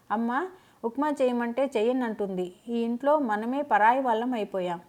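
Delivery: playing the wronged daughter to her mother; mild dramatic complaint. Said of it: "Revathi నాటకం ఆడింది". (అమ్మకు ఫిర్యాదు చేస్తూ కొంచెం నాటకీయంగా)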